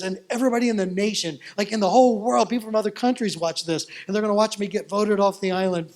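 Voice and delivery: worked up. Retold or imitated. Tina fretting to her pastor about live TV, worked up. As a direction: rush the worry out, nearly panicking. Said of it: "She's, like, worked up".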